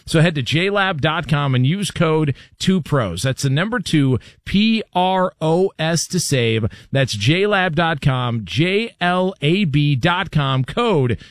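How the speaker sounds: clear, slowing sponsor read; host reading the sponsor promo. Acted. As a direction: spell out the code slowly.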